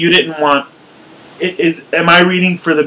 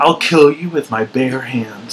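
mock menacing threat; slower than usual. Shown as a demonstration. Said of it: "should I do it more like this".

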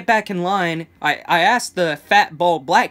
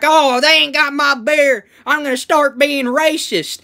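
American stereotype; 8 semitones higher, 7 dB louder than usual. Acted. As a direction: bellow it like a caricatured American beer lover. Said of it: "this full-on American stereotype".

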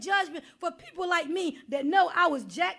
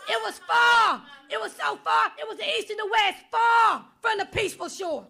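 full-force preaching; 2 semitones higher than usual. Acted. Preacher exhorting the congregation, at full force. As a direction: preach it hard and call them out.

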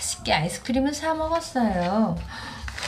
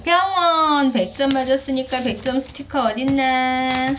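excited praise; 2 semitones higher, 5 dB louder than usual. Real, not acted. Praising child's correct answer.

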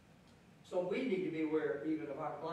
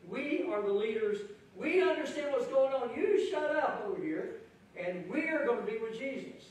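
higher, louder, smug brush-off; dismissive disciples; 4 semitones higher, 3 dB louder than usual. Acted. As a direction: shoo the beggar away from Jesus. Preacher voicing dismissive disciples.

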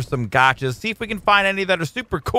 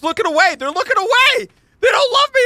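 much higher, whiny pretend heartbreak; mock hurt whine; 4 dB louder than usual. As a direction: whimper it like a jilted puppy. Pets ignore him.

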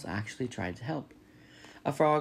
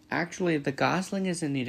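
higher, cheery greeting; cheerful robot hailing someone over water; friendly booming robot; 6 semitones higher than usual. A narrator's reading. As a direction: call out a friendly hello. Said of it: "the robot's friendly voice boomed".

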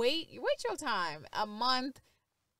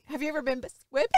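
quick, raised mimicry of the question; imitating partner's delivery; 4 semitones higher, 4 dB louder, much faster than usual. Woman echoes partner's question, mimicking the delivery. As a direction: rattle it off in imitation of your partner. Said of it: "trying to say it how you said it".

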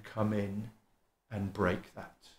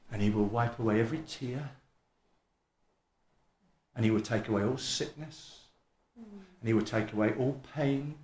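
hushed, solemn preaching. Real, not acted. Preacher promising that he will take away all pain, hushed and solemn.

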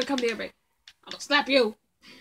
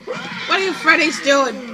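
slow, loud, higher demand; drawn-out shout; 3 semitones higher, 6 dB louder, slower than usual. Real, not acted. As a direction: stretch the words out in a yell. Yells at Freddys slowly.

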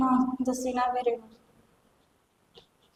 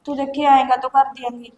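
loud, anxious begging; desperate pleading; 6 dB louder than usual. Acted. Girl loudly begs her sister-in-law to let her study. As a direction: plead hard not to lose college.

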